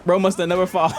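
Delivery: high-pitched talk through real laughter; crying with laughter. Real, not acted. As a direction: crack up as you say it. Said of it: "Oh, I'm crying".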